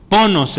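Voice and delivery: "Ponos" with the accent on the first o; stress on first O. Shown as a demonstration. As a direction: punch the first syllable of "Ponos". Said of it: "el acento está ahí en la O".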